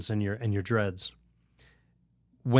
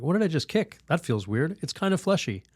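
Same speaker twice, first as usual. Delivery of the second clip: mock puzzlement, pitch lifting; puzzled thought; 5 semitones higher than usual. Storyteller recalls kicking something unseen, mildly puzzled. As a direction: wonder aloud at an odd discovery.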